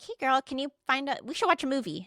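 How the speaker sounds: high, quick, breezy ask; casual friendly ask. Retold or imitated. Friend coaxing Robin to find a movie, casual ask.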